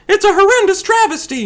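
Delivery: somewhat high-pitched indignation. Acted. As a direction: pitch it up, short of the top. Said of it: "Just a notch higher".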